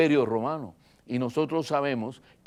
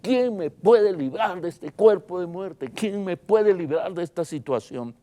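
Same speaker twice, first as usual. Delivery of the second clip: raised, higher-pitched plea for rescue; desperate cry; 5 semitones higher than usual. Retold or imitated. Preacher voicing the possessed man begging for freedom, desperate cry. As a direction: preach his despair as an imitated outcry. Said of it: "sin duda gritaba".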